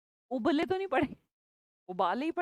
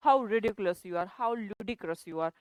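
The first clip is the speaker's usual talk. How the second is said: slow drawn-out scolding; scolding example; 4 semitones lower, much slower than usual. Shown as a demonstration. Teacher drawling a scolding example. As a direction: stretch it out like telling someone off.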